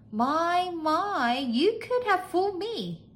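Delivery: very high maid's voice; high, amazed maid; marvelling maid. A narrator's reading.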